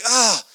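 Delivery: high "ah" of reluctant agony, acted; exasperated groan. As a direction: let out a high, frustrated groan. Groans in inner struggle.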